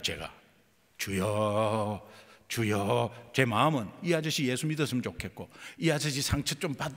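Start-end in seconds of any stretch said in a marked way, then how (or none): 1.0-3.3 slow drawn-out cries of 주여; slow earnest prayer. Retold or imitated. Praying over the drunk man, slow drawn-out pleading. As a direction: draw each 주여 out slowly and pleadingly. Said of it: "이 주여가 빨라지는".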